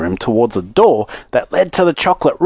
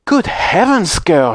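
alarmed shriek; 5 semitones higher, slower than usual. Acted. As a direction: exclaim in motherly alarm. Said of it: "shrieked Missus Beauregard".

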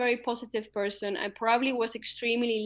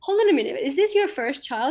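retold surprise; 6 dB louder than usual. Retelling others' reaction to a first child, mock surprised. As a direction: quote their astonished double-check, raised in pitch.

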